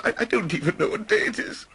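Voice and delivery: high, breathless happy stammer; too happy to think straight; giddy Scrooge. Acted. Scrooge to himself on Christmas morning, giddy.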